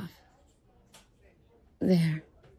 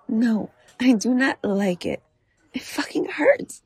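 normal talking voice

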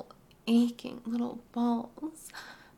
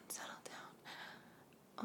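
much softer, slower barely-there whisper; fading whisper; 19 dB quieter, slower than usual. Acted. Mommy hushes her partner again, fading whisper. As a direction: let it fade to almost nothing. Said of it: "settle down repeated".

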